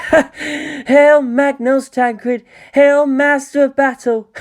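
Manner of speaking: high, loud, slow ecstatic cheer; drawn-out rapturous salute, voice soaring; gleeful hailing. Acted. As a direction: hail the war machine with giddy awe. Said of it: "jumping up and down in glee".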